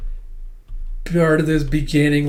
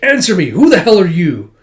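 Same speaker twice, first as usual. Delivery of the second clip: loud, raised-voice demand; acted furious challenge; angry demand; 5 semitones higher, 10 dB louder than usual. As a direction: demand an answer forcefully. Alma demands stranger's identity.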